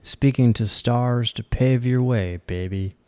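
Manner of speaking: measured verse reading, falling line ends; poem recitation. Acted. Host reads the poem Nightfall to listeners, poem recitation. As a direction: recite it line by line, settling at the close.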